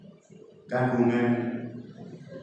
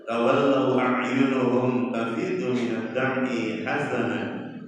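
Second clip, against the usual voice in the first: slow chanted Arabic recitation, melodic; Quran recitation; slower than usual. Acted. Preacher recites the verse to the congregation, chanted slowly. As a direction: intone the verse like a qari.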